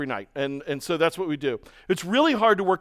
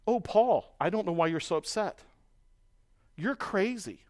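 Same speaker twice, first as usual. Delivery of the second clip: softer, patronizing brush-off; dismissive mock reply; 6 dB quieter than usual. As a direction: wave Paul off as overreacting. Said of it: "what the response is".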